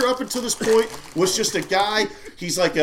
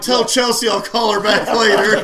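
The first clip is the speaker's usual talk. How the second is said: mock official call; 2 semitones higher, 6 dB louder than usual. Acting out the presidential phone call.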